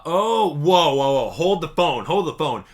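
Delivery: loud sudden whoa; startled, hold the phone; surprised. Real, not acted.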